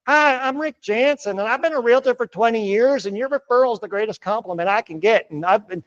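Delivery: stiff weird intro. Shown as a demonstration. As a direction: act out a boring robotic realtor pitch. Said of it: "wondering why I'm talking so weird".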